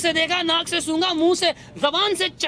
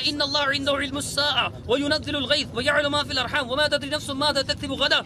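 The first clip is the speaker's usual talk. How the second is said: Quran recitation. Real, not acted. Debater quoting scripture to his opponent, reciting. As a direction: recite the verse from memory.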